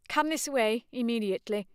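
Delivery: high, firm command; curt commanding tone. Acted. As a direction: order the women away. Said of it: "commanded Cecil".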